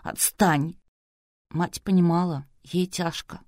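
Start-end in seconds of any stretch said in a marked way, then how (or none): 0.0-0.8 hissed at her father, cross; angry hiss. A narrator's reading. Лариса hisses at her father to leave her alone. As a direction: hiss him away. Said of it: "Лариса шипела сердито".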